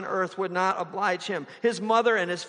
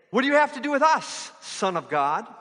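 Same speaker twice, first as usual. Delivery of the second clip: high, loud demon cry; 6 semitones higher, 4 dB louder than usual. Retold or imitated. Preacher voicing demons confronting Jesus, shrill cry. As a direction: snarl it like a cornered demon. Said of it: "the demons say".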